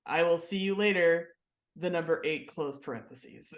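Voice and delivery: flat neutral court reader; deadpan robotic reading; monotone reading. Retold or imitated. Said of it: "reading it in this monotone voice".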